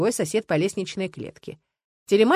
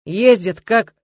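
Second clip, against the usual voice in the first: angry swearing; 9 dB louder, much slower than usual. A narrator's reading. Стас swearing at drivers.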